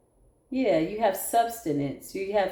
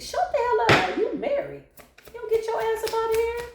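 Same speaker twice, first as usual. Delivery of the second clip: sharp retort; 13 semitones higher than usual. Real, not acted. Retorting to pining ex.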